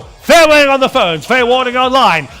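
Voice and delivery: rapid auction chant; auctioneer. Acted. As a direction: rattle off bids like an auctioneer. Auctioneer calling final bids.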